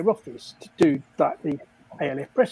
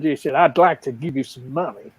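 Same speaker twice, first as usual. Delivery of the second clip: lightly put-on American stockbroker, a bit lower; bad American accent; 4 semitones lower than usual. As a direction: imitate an American, not very well. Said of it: "Don't make me do an American".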